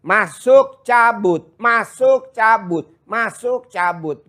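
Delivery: alternating rise on masuk and fall on cabut; sing-song masuk rising, cabut falling; rhythmic demo. Shown as a demonstration. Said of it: "Seperti orang M L".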